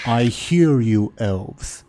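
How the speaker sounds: slow, lightly voiced dragon; a hint of a looming dragon. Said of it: "says the dragon".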